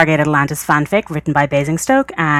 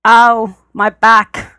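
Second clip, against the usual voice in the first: higher, louder whine of pain; milk the hurt for sympathy; whiny complaint; 6 semitones higher, 5 dB louder, much slower than usual. A narrator's reading. Rodney complaining to John after they fall.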